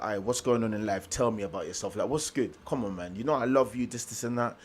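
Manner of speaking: casual, gentle check-in with a friend; talking to her normally. Retold or imitated. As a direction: coax a friend to open up, softly. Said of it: "I was just talking to her normal".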